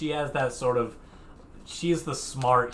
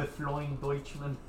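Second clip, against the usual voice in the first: mock German accent; 4 semitones higher, 5 dB quieter than usual. Shown as a demonstration. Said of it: "repeats mock name".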